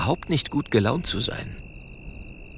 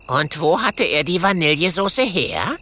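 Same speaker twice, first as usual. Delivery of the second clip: suspicious; 8 semitones higher than usual. Acted. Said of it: "fragt misstrauisch".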